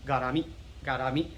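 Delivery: "garami" with quick "ga" and tapped R; rushed first syllable. Shown as a demonstration. Teacher showing you're rushing the first syllable, blurred pronunciation. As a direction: say "garami" evenly, like "gah-dah-mee". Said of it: "rushing the first syllable".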